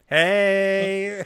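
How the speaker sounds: loud, high "Hey!"; mock startled shout. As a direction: call out in alarm. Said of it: "they were like".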